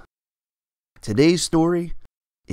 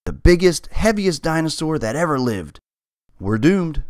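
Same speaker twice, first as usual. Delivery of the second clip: despair; 6 semitones higher, 4 dB louder than usual. Acted. Cat in despair.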